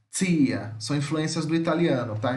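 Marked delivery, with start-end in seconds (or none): 0.1-0.8 tia opening on a "tch" sound; affricate T demo. Shown as a demonstration. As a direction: say tia as "tchia", lower pitch. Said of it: "esses dois sons são influências do italiano".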